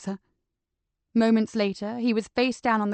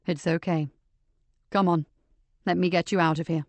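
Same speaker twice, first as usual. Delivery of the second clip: comforting; 4 semitones lower than usual. Acted. Joseph comforting shocked Nicky.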